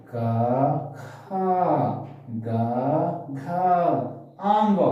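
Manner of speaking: क, खा, ग, घा, आंग in sequence, each set apart; isolated syllables, unaspirated क and ग against aspirated खा and घा; careful series demo. Shown as a demonstration. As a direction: recite क, खा, ग, घा, आंग with breath puffed on खा and घा. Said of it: "अगर एक साथ बोलेंगे".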